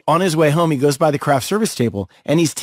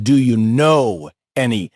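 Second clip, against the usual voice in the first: slowly, spacing out the question; deliberate repeat; 3 semitones lower, slower than usual. Retold or imitated. Older actor repeats his elevator question, deliberately. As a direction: imitate him drawing out each word.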